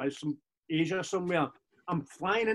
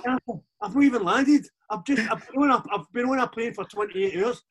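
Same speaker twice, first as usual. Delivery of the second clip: laughing, raised and a bit louder; laughing protest; 5 semitones higher, 5 dB louder than usual. Retold or imitated. Telling the gaffer on the phone he's just landed, laughing. Himself replying, laughing, in retold call.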